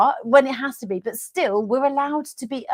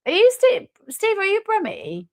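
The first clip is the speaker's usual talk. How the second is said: high, incredulous "are you Brummie"; mock accusation; 10 semitones higher than usual. Real, not acted. Quizzing a guest about being from Birmingham, high and incredulous. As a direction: pounce on it, much higher.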